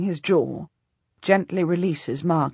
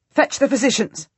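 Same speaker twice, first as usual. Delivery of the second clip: sharp, curt command; snapped order; 5 semitones higher, 3 dB louder than usual. Acted. Duchess snapping at a lady in waiting, curt order. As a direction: bark the order at a servant. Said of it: "I snap at one of the ladies".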